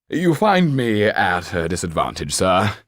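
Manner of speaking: a hint of a bowing old actor; lightly voiced actor. Old actor greeting a gentleman at the door, lightly voiced.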